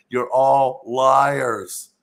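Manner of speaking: slow, loud and drawn out, every word weighed; angry accusation. Retold or imitated. Child accusing his parents of lying, slow and loud. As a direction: hurl the accusation at the parents as a kid.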